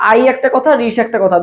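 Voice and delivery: আই and রিশ spoken as separate pieces; teacher showing আইরিশ splits in two; split syllables. Shown as a demonstration. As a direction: break আইরিশ into আই then রিশ. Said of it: "ভেঙে ভেঙে বলতে হচ্ছে আইরিশ".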